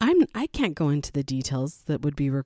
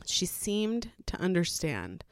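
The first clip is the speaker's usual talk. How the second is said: whisper; 7 dB quieter than usual. Real, not acted. Confiding hopeful memory.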